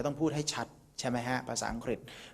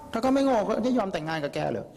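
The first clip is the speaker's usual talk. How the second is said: father's retort, laughing; 7 semitones higher, 4 dB louder than usual. Retold or imitated. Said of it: "พ่อไม่เห็นด้วยว่ะ".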